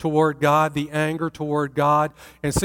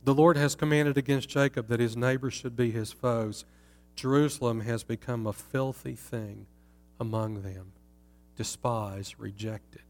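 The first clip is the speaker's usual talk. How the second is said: fading lament; 4 semitones lower, 4 dB quieter than usual. Acted. The city tells of her shame, fading quiet lament. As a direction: lament sinking lower and much softer.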